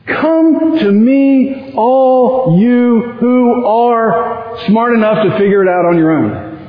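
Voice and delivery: drawn-out, slow teasing misquote of the verse; deliberately misquote it, slow and knowing; mock misquote. Shown as a demonstration. Preacher mock-quoting a wrong verse to his congregation, slow and teasing. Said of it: "No, that's not what it says".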